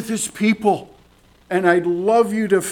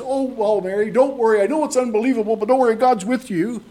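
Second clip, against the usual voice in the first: breezy mock brush-off, a touch higher; flippant angel; 5 semitones higher, faster than usual. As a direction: toss it off lightly like an angel shrugging. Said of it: "and flippantly says".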